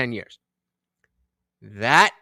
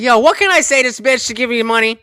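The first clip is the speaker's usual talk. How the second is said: mocking dude voice; 7 semitones higher, 6 dB louder, faster than usual. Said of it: "He's like".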